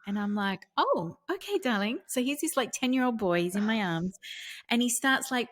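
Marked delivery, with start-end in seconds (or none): 0.8-2.0 a retold sweet, higher-pitched yes to a child; tender mother. Mother answering her son tenderly.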